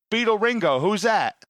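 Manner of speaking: high, loud baffled read; hammed-up clueless streamer; mock clueless. Storyteller voicing the streamer high and baffled. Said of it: "reads his chat and goes".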